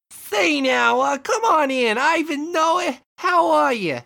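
high, loud friendly shopkeeper. Acted. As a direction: greet them like an eager store owner. Shopkeeper greets customers in skit.

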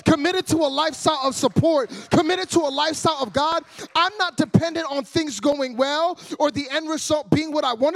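building into a passionate declaration; preaching God's words with growing force; God's voice, preached. Retold or imitated. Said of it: "And God said".

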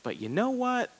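"But you know what?" jumped up high, a sharp pivot; wife switching to the hard part, high pitched "But you know what?"; turning to confront. Retold or imitated. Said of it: "the middle part is like".

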